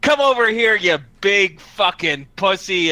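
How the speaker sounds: taunting. Acted. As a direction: goad the enemy into a fight. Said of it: "after he's done taunting".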